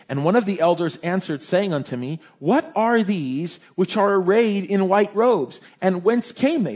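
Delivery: emphatic, measured Bible reading; scripture reading. A narrator's reading. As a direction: proclaim the verse to the congregation. Reads scripture aloud to congregation.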